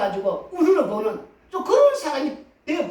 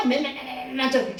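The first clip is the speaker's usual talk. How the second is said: cicada chirp imitation. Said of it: "쉬지 않고 그렇게".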